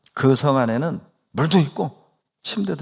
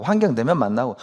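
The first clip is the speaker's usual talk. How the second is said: ordinary talk, nothing marked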